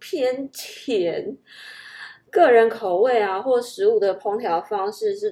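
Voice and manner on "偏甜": contemptuous, near-gagging disgust, scornful and pitched up. Acting out a reaction to how food tastes: disgusted, scornful tone. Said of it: "带着厌恶的语气……脸上还要带着非常非常不屑，然后好像已经快要吐出来了".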